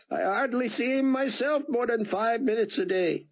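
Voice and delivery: put-on high, eager old man with an Israeli accent; thick Israeli accent. Rosenzweig welcoming Buck to the yacht club, eager thick Israeli accent. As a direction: fuss over your guest in a thick Israeli accent. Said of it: "in his thick accent".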